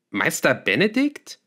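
surprised question, pitch leaping up. A narrator's reading. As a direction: ask it in sudden surprise, ending high. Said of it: "sagte ich überrascht".

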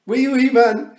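put-on very high, full-blast toddler shriek. A narrator's reading. Wentworth delighted by the tiny man, gleeful full-volume shout. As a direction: bellow the chant in childish delight. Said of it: "shouted Wentworth gleefully".

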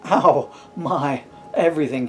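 loud, groaning ow; a mild groan of pain. Acted. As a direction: groan from the fall. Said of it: "he groaned".

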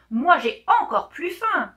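loud, high roar. A narrator's reading. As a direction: roar it out to top the other tiger. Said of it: "rugit le tigre de gauche". (rugissement fort et aigu)

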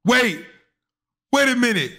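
high, loud, laughing disbelief; blurting out in amazed hysterics; excited shouting. Real, not acted. Vlogger reacting to a photo of a singer, high excited yelling.

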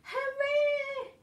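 high, joyful cheer; cheering hooray. Acted. Villagers cheering the whale, high and joyful. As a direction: cheer like a crowd. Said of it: "villagers shouting".

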